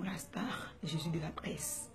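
breathy whispered aside. Acted. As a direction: drop to a whisper on the nickname. Whispered aside in shout-outs. (chuchoté en aparté)

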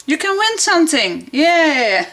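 high, fast, breaking into laughter; laughing excitedly. Real, not acted. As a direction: giggle through the news. Giveaway announcement, laughs.

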